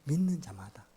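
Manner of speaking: hushed emphasis on the verse; whisper. Real, not acted. Preacher whispering the verse's key words back to the congregation.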